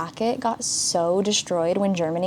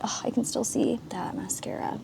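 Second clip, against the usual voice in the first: whisper; 3 semitones higher, 7 dB quieter than usual. Real, not acted. Whispering aside about mascara.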